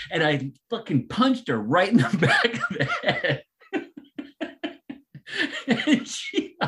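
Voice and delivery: high, breaking into laughter mid-story; real giggles while confessing; laughing. Real, not acted. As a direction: laugh through the embarrassment. Laughing at own mishap.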